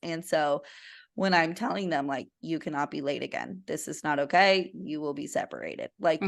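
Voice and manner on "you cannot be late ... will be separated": firm manager warning; stern voice. Retold or imitated. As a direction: lay down the law to an employee. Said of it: "my stern voice".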